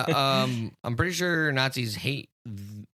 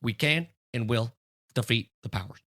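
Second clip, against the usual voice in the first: mild Trump voice; Trump impression. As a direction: boast like Trump at a rally. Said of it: "Can you do a Trump one?".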